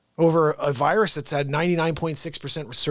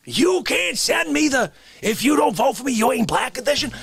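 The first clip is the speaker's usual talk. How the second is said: higher, building mock indignation; mock rant; 6 semitones higher than usual. Demanding the edition from Santa, building mock indignation. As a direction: work yourself up in fake outrage.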